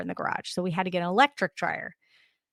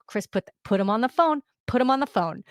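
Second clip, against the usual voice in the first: louder, insistent demand to put him on the phone; 3 semitones higher, 4 dB louder, faster than usual. Retold or imitated. Retelling how she demanded her husband hand over the phone, loud and insistent. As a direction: insist sharply, building to a near cry. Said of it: "I'm like".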